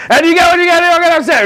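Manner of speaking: high, automatic singsong chant; sleepy rote recital. Retold or imitated. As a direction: rattle it off on autopilot. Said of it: "asleep or on the phone, like".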